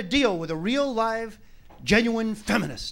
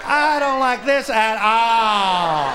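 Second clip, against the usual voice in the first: whiny wife; much slower than usual. Acted. Wife complaining on wagon.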